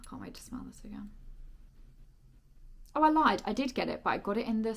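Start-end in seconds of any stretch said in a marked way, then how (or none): 0.1-1.1 savoring a smell. Real, not acted. Savoring new perfume.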